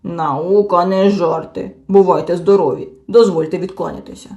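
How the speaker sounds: blushing Hemulen storming off; offended and huffy. A narrator's reading. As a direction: take your leave with wounded dignity. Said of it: "Гемуль почервонів".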